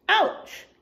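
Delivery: put-on high playful ouch for the kids; mock ouch. Reacting to the smack.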